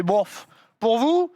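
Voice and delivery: slow, offhand and unbothered; indifferent shrug. Retold or imitated. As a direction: shrug it off like it's nothing. Workman shrugs off the timescale.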